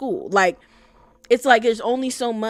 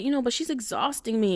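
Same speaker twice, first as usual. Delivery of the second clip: imitated whine, pitched a little up; whining; 4 semitones higher than usual. Girlfriend complaining to boyfriend about work, whining. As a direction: mimic a worn-out girlfriend's whine. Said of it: "kinda, like, whining".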